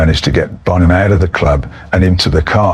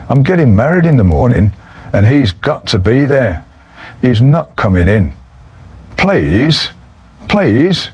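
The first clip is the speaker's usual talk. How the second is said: rising, higher mock begging; pleading; 4 semitones higher than usual. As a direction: beg her, pitching up on please. Begging wife to let friend in.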